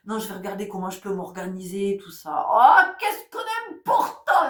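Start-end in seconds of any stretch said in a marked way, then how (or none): 2.5-4.5 high, slow, hammed-up ironic sigh of delight; mock rapture at our own habit. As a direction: stretch it out mockingly, much higher and louder. Ironic exclamation to audience.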